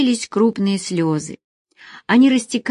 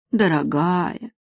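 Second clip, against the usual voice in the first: tender sigh; slower than usual. Acted. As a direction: sigh the word gently. Sighing tenderly at her.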